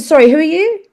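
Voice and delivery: sharp high "sorry", no real apology; retold confrontation. Mother confronting the housekeeper, pointed and high.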